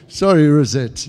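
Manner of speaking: sorry said through leftover laughter; amused apology; laughing apology. Real, not acted. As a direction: shrug off the slip with a chuckle. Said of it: "I just got tongue-tied then".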